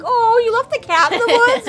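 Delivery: high, scandalized squeal; mock shocked pet lover. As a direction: gasp at the abandoned cat. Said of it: "We're like".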